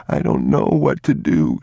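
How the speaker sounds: put-on a touch of childlike panic; lightly voiced frightened child; panicked boy. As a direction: plead like a worried little boy.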